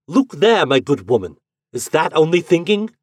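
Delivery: loud, high insistence; insistent. A narrator's reading. Lodger forcing the landlady to look. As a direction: force her to look. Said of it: "he said, pointing at her".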